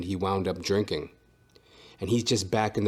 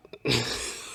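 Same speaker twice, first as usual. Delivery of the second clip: soft laugh; 5 dB quieter than usual. Real, not acted. Laughing after joke.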